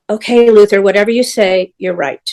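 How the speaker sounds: mock soothing, humouring him; lightly imitating her placating tone to the singer. Telling an angry star what he wants to hear, placating. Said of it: "Like that".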